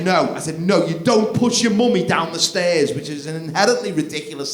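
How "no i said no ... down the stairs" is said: firm no. Retold or imitated.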